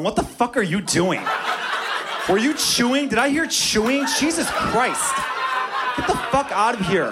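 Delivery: exasperated half-shouted questions, pitch up; mock outraged woman. Woman to man under the covers, mock outraged. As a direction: play a disgusted partner snapping at him. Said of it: "tapped a guy on the shoulder going".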